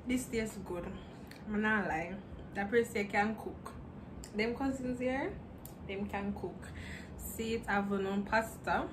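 eating between words; chewing while talking. Real, not acted. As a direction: mouth partly full. Seen 0: Took forkful just before; talks with food, bowl held throughout.

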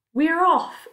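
high, loud excited call; excited shout. A narrator's reading. Someone shouting to everyone as they set off, excited shout. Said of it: "someone was shouting".

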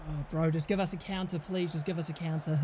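low, soft muttered plea; quiet pleading. Real, not acted. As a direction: beg under your breath. Begging team while watching.

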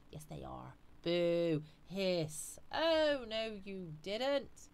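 hammed-up panto audience boos and retorts; mock booing, then a drawn-out singsong comeback; pantomime heckling. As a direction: play the panto crowd, stretching the words out. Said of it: "Sorry, it's pantomime season".

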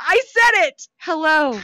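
high, loud, triumphant; excited pride. Real, not acted. She cheers her own German hello to the chat. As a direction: crow over the word. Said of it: "proud of her Hello".

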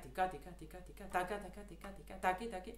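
tika, tika, taka, taki with a light push on the first tika of each pair; tiny accent on each pair. Shown as a demonstration. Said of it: "I'm doing a tiny accent on each start".

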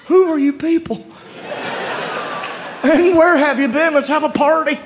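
excited greeting. Retold or imitated. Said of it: "I was like".

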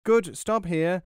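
high, loud mouse giving orders; calling out. A narrator's reading. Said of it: "while still calling out".

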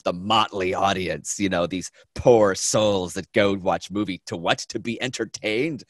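drawn-out mock disdain for the audience. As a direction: mimic her scorn, stretching key words. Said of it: "can you hear the disdain in her voice".

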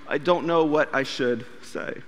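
small, lost voice. Retold or imitated. Lost for words on faith.

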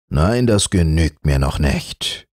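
a touch of a majestic king; majestic monkey king. Acted. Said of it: "meinte der majestätische Affe".

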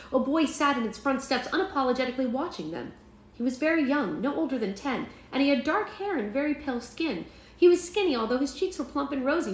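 lilting storybook description; animated audiobook narrator; story narration. A narrator's reading. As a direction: paint the character in an expressive reading voice. Reads a story aloud.

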